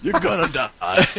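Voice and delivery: screaming announcer. Pretend. Announcer warns players near the bomb, mock scream. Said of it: "have the announcer scream".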